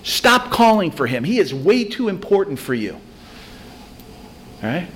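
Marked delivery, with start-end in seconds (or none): 0.0-2.9 crowd yelling. Retold or imitated. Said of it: "the whole city is yelling at this guy".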